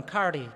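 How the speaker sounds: karri said slowly, KAR-ri with a rolled r; karri, a clear tapped r, stress on KAR; Kaurna word. Shown as a demonstration. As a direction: teach karri in Kaurna, syllable by syllable. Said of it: "In Kaurna language, we call that one".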